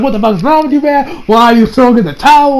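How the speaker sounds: high-pitched retold exasperation; freaking out. Retelling Josuke protesting at giving up, freaking out. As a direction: act out a frantic protest without fully shouting. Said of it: "Josuke is freaking out".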